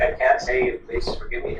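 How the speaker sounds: a touch of tearful pleading, fading to a hush; tearful begging. Retold or imitated. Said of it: "he's weeping. And he just begs".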